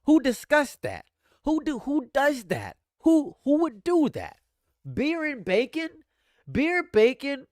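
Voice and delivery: hammed-up shriek of disbelief; shrieking disgust. Streamer reacting to beer and bacon flavors, high mock shriek.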